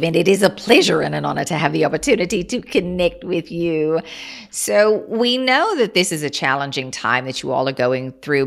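opening with a breathy whisper, then a steady, formal channeled voice; channeled collective voice. Acted. Channeling star beings to the podcast host, a formal, unhurried collective voice. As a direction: speak as a collective of beings greeting listeners with measured honor.

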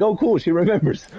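delighted little aside; mild giddy self-quote; pleased. Retold or imitated. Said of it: "And I'm like".

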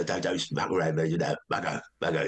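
lightly put-on comic Briton voice; a hint of a gruff-spoken sitcom impression; Mel Smith. Actor showing how he voices his sitcom character, light impression. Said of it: "do it like Mel Smith would have done it".

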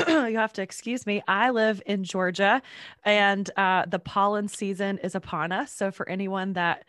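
stuffy, congested voice. Real, not acted. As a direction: speak through a blocked nose. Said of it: "my voice is not usually this deep".

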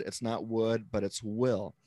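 WOULD dismissed, WILL landed firmly; weight on "would", then "will"; stress on WOULD, WILL. Shown as a demonstration. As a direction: contrast "would" against a final "will". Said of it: "that I'm using now is will".

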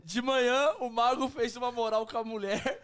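high, slowed, teasing through laughter; laughing teasing. Real, not acted. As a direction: tease him while giggling. Teasing friend while laughing.

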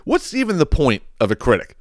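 lightly voiced girl, starting high; imitated arguing girl. Podcaster voicing a girl arguing with a critic, lightly imitated challenge. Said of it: "the girl was like".

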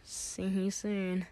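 slow, unenthusiastic farewell; half-hearted goodbye. Acted. Leaving friend's house after being thrown out, half-hearted. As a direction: draw it out with little conviction. Narrator answers the boy's goodbye.

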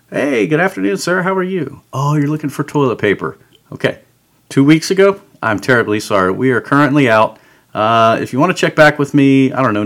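the cheerful customer-service voice, lightly done; lightly voiced helpful clerk greeting a shopper; polite retail voice. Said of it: "that retail voice, the customer voice".

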